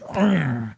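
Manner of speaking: drawn-out play-wrestling "argh"; imitated attack cry. Kid jumping off the couch onto dad, imitated attack cry. Acting out his leap on dad.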